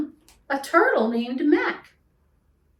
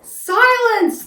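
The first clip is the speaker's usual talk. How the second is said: loud, high royal shout; one drawn-out, commanding bellow; barked command; 11 semitones higher, 9 dB louder than usual. A narrator's reading. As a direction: bark the order like a furious king. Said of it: "the king of the turtles barked back".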